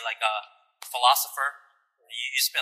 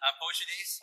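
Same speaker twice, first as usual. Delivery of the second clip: laughing, higher, teasing about poetry snaps; laughing tease; 5 semitones higher than usual. Real, not acted. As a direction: joke through a laugh. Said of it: "Start flicking my fingers".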